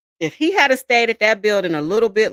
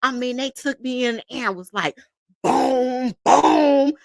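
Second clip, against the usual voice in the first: mocking complaint; 2 semitones higher than usual. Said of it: "in that hospital talking about".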